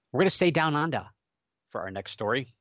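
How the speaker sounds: bad Australian accent, knowingly. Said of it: "That was my Australian accent".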